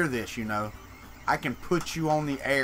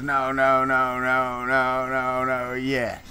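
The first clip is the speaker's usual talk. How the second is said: lower, hesitant string of no's before a yes; dithering table dude; 4 semitones lower, much slower than usual. Retold or imitated. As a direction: mimic a man dithering at the table, dropping the pitch. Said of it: "that dude that sits at the table and goes".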